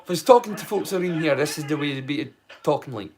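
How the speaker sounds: quick, thick Scottish dialect; broad local Scots. Shown as a demonstration. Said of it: "a wee glimpse into the way that I speak".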